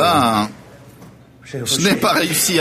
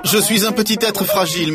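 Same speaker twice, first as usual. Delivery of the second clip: laughing; 6 semitones higher than usual. Real, not acted. Joking self-mockery with laugh.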